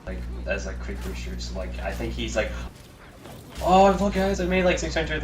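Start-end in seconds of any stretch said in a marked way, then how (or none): 3.6-5.2 high, loud mock announcement to the fans; excited YouTuber imitation. Small YouTuber telling his viewers about new subscribers, excited imitation. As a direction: imitate a thrilled small streamer, pitched way up.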